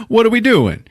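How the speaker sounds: lost and bewildered; baffled question. Retold or imitated. Whiskey baffled as the girl swipes her finger, high confused.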